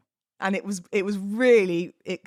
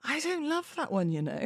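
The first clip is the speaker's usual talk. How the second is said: laughing; 7 semitones higher, 5 dB quieter than usual. Real, not acted. Laughing admission.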